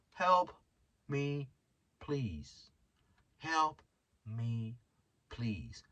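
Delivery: fading, pitiful plea that drops to near nothing; mock beggar. Podcaster jokes he sounds like a homeless person, pitiful fading plea. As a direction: beg like someone on the street corner. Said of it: "I fucking sound like a homeless person".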